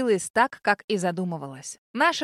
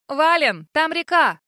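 higher, louder alarmed call; worried cry; 6 semitones higher, 7 dB louder, slower than usual. A narrator's reading. Heroine alarmed at the river ahead, worried cry. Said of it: "заволновалась я".

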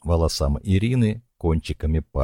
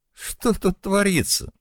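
high, sharp demand from the doorway. A narrator's reading. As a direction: burst in and demand an answer, high. Nika bursts in, demanding. (с порога, высоко и резко: «Что тут творится?»)

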